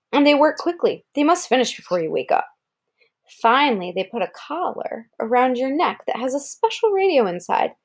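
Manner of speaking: even picture-book read-aloud; reading to a child. Acted. Parent reading a wolf book to Kara, storybook voice. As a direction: read it clearly to a small listener.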